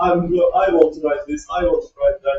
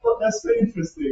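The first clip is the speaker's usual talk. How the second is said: British phrasing; 6 semitones higher, faster than usual. Shown as a demonstration. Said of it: "British say that it's like".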